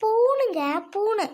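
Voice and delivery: பூணுங்க high, loud and stretched; emphatic repeat. Acted. Wife repeating பூணு for her puzzled husband, high and emphatic.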